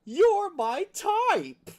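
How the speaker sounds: very high, loud, slow and drawn out; creepy flirt. Retold or imitated. Character squeals at the mechanic in a very high drawn-out voice. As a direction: leer it out like a love-struck creep. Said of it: "He's excited because".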